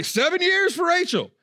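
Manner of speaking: high eager blurt; blurting Jacob. Retold or imitated. Pastor voices Jacob blurting out his lovestruck offer high and eager. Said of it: "just blurts it out".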